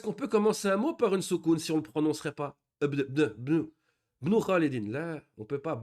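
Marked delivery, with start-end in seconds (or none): 4.2-4.9 Ibn said as bnu, dropping the opening i; wrong pronunciation. Shown as a demonstration. Teacher mimicking the common error, Ibn without its i. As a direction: clip the i off Ibn and start on bn. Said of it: "C'est une erreur".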